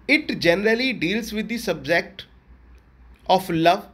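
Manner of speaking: slow, measured note reading; teacher dictating notes to the class; slow dictation. Shown as a demonstration. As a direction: read the definition slowly to copy. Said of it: "dictating notes".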